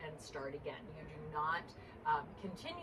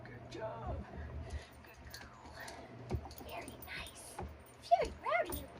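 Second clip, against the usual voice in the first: high cooing dog praise; squeaky praising a dog; 13 semitones higher than usual. Real, not acted. Praising puppy.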